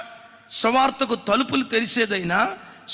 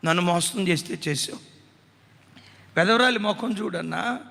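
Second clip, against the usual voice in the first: imitating a weeping plea. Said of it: "ఏడుస్తా అందట".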